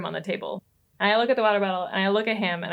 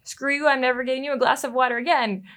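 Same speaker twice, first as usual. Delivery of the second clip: mock resentment; 4 semitones higher, 5 dB louder than usual.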